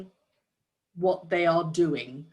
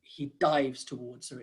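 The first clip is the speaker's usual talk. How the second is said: a brisker "dives", lightly demonstrated; quicker word; 4 semitones lower, 4 dB quieter than usual. Shown as a demonstration. Coach contrasting word choices for describers, "dives" said more briskly. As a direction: say "dives" shorter, without stretching it. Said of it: "it's a much quicker word".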